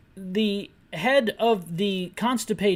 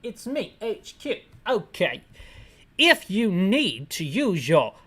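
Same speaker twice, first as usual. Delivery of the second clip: a lightly hammed-up British officer; British accent. HQ officer on the radio to Barry, in a mock British accent. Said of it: "attempt a British accent".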